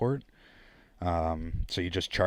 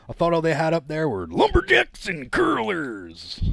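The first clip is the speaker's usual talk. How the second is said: higher, mocking American-style voice; mocking outsider; 8 semitones higher, 4 dB louder than usual. Mocking what outsiders think of Canada, higher mock voice. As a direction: sneer it like a clueless tourist. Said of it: "was that Tim Hortons commercial".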